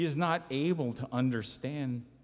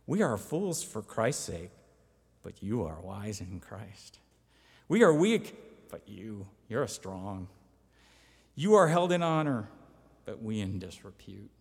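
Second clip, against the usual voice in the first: mock praise, punched then dropped away; sarcastic contrast of lowly us and exalted you; 2 semitones lower, 4 dB louder than usual. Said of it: "he does it in this sarcastic way".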